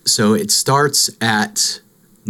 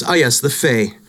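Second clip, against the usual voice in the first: dramatic reading; 2 semitones higher than usual. Acted. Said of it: "I found this".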